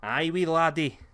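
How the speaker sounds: hammed-up Scottish banter; Scottish accent. Joking about the coming match in a Scottish accent. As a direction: lay on a playful Scottish accent. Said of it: "Scottish promos".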